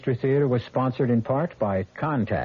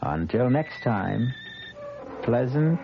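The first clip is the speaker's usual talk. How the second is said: ominous sign-off. Acted. Host signs off ominously.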